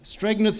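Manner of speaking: Stregneth in two syllables, hard G before N; misspelling pronounced. Shown as a demonstration. Teacher showing a popular misspelling, Stregneth with hard G. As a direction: sound out the wrong G in Stregneth, STREG-neth. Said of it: "put this G before the N".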